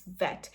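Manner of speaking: "vet" with teeth on lip; V sound. Shown as a demonstration. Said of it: "the W and V sound".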